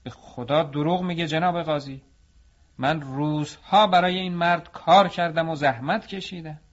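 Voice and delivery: put-on young worker furiously accuses the potter before the judge; angry. A narrator's reading. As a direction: plead hotly that he is lying. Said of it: "جوان عصبانی شد و گفت".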